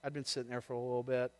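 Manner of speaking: smooth things over gently with a stranger; calm the other driver down softly; gentle, reassuring. Retold or imitated. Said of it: "I just gently said".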